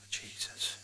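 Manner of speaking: a breathy, exasperated whispered curse; whispered exclamation. Real, not acted. After the pots story, an exasperated whispered aside. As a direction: mutter it under your breath.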